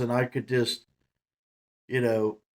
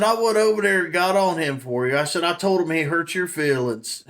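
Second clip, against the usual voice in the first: teasing report; 3 semitones higher, 4 dB louder than usual. Retold or imitated.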